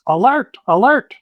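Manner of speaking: very high, frantic little creature; shrill squeaks of alarm; small creature crying for help; squeaky kinku cry. Acted. Kobold-like kinku calling for help.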